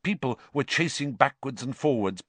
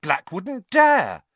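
high, loud, slow defiance; spirited; 12 semitones higher, 7 dB louder, slower than usual. A narrator's reading. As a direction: insist boldly, drawing it out. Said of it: "said Ron spiritedly to Hermione".

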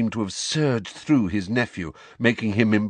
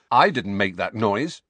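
firmly; 4 dB louder than usual. Acted. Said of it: "said Harry firmly".

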